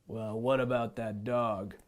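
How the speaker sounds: lion voice. Acted. Lion asks about the dog.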